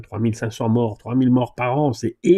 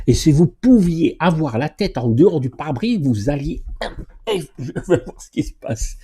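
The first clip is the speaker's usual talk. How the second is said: mock lady driver; 3 semitones higher than usual. Mocking ladies craning past windscreen.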